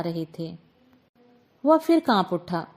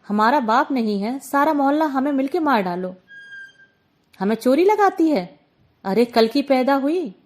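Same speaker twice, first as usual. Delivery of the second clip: louder, bitter accusing outburst; anguished outburst; 4 dB louder than usual. Acted. Gulki finally lashing out at the aunt, anguished anger. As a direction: hurl each accusation at her. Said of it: "गुलकी ने तड़पकर कहा".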